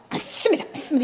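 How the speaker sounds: whispered mock preaching; softly ape grandpa's sermon; child mimicking preacher. Pastor imitating a child copying his grandfather's preaching, whispered. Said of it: "설교하는 걸 흉내 내는 거야".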